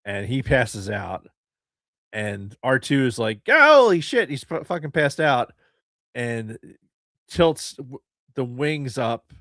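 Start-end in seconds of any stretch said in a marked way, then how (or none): 3.5-5.5 high alarmed yelp; panicked shout. Retold or imitated. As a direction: shriek it in panic. R2 panics at passed out Anakin.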